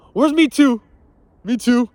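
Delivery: loud, high-pitched mock protest; mock outcry. Man joking about being harassed at the gym, mock outcry. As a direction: call it out in exaggerated indignation.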